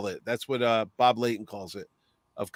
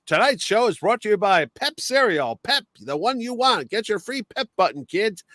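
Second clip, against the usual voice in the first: lightly voiced old radio announcer, a bit higher; breezy sponsor read, pitched up a little; 6 semitones higher than usual. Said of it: "We'd have it like".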